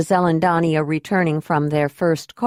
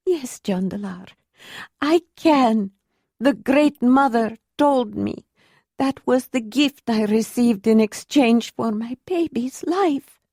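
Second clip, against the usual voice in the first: understated, painful certainty rising higher; haunting certainty; 5 semitones higher than usual. A narrator's reading. Ayla answering Jondalar, hauntingly certain of the mother's gift. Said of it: "She said it with such haunting, painful certainty".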